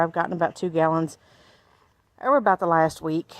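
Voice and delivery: talking while out of breath; breathless from walking the garden. Real, not acted. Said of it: "I'm out of breath".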